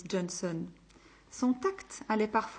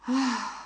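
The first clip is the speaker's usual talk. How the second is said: relieved sigh; 3 semitones higher, 3 dB louder than usual. Acted. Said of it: "soupira-t-il avec un immense soulagement".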